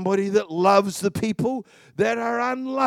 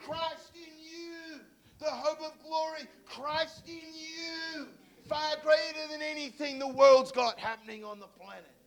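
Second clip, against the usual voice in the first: tearful hush; 6 semitones higher, 10 dB quieter than usual. Real, not acted. Tearful quiet climax.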